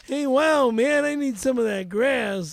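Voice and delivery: loud Colombian-accent caricature; mock Colombian. Shown as a demonstration. Rapid-fire accent request from host, mock Colombian.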